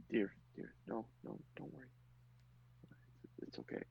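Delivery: gently calm a weeping woman; soothing comfort. Acted. Ellie hugging the sobbing widow, soft reassurance.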